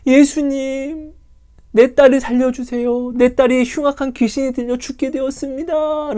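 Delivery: mother crying out to Jesus; desperate mother. Acted. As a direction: beg for your daughter's life. Mother begs Jesus for daughter.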